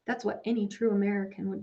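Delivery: American leaned on, a touch heavier; pointed weight on American; stress on American. A narrator's reading. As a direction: press the word American home. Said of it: "He emphasized the word American".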